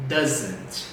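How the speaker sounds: "doesn't" said low on its own; modelled pronunciation. Shown as a demonstration. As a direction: model "doesn't" as one contracted word. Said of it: "Let's repeat". ("doesn't" pronunciado junto, para repetir)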